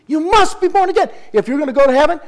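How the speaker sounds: preacher proclaiming salvation to the church; fervent preaching. Real, not acted. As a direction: drive the truth home with full force. Preacher's emphatic climax.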